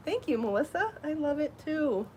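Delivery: breathless and winded; out of breath. Real, not acted. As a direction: talk while catching breath. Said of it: "No wonder I'm panting".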